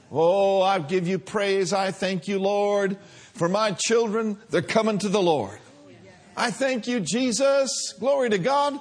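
rising, praising prayer voice; fervent prayer. Shown as a demonstration. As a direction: pray it out in thankful fervor. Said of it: "Say it with me".

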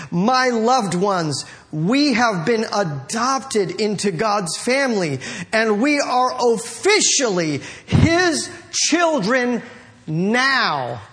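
slow, deliberate proclamation with stretched key words; scripture reading. Acted. Preacher reads verse two to the church, emphatic declamation. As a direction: declare it to the congregation, word by word.

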